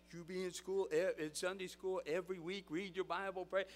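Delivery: a hint of kids' show mascot; Baptist Barney. Costumed character advising Sunday school kids, lightly put-on voice. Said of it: "Well, Baptist Barney, what do you wanna tell the kids".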